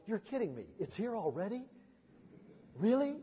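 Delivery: softly dismayed, questioning; mildly incredulous, lifting at the end; reluctant disbelief. Acted. Preacher voicing bigger hearts at Christmas's arrival, dismayed disbelief. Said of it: "bigger hearts that are beating going".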